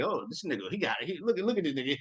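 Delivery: hushed, impressed murmur. Retold or imitated. The queen sizing up the rich king, a hushed impressed murmur. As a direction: marvel quietly to herself. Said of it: "she's like".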